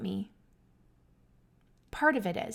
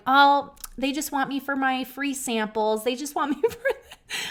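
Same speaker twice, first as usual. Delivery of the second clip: mocking; 5 semitones higher, 4 dB louder than usual. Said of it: "people start going".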